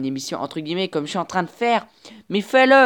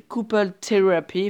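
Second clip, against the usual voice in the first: "Couple Therapy" said with a modest English accent; a French speaker's passable English accent on "Couple Therapy". Real, not acted. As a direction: read "Couple Therapy" the English way, not quite native. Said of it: "excusez pour l'accent anglais".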